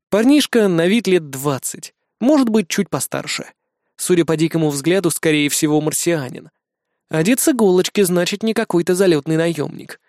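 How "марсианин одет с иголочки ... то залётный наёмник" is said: plain reading voice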